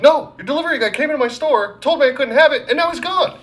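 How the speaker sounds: high-pitched mock outrage; retold freak-out. Customer freaking out on store girl, high exasperated rant. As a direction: act out losing it, voice shooting way up. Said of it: "I'm freaking out on this girl".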